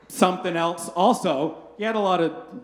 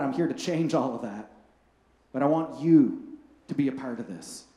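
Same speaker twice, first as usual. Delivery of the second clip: lower, gentle, reassuring invitation; tender Jesus; 4 semitones lower than usual. Retold or imitated. Jesus gently inviting flawed people to join his work, tender. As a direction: speak as a kind teacher inviting them in.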